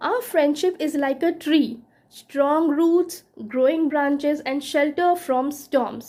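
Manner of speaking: slow, measured recitation of a verse; lingering recital of the lines; slow poem reading. Acted. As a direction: read it like a poem, unhurried. Reads a quoted poem.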